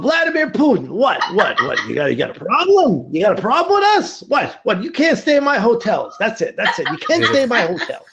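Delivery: a hint of a braggy, threatening tycoon; bad Donald Trump impression. Trump impression threatening Putin, lightly voiced, laughing. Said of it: "my very bad Donald Trump impression".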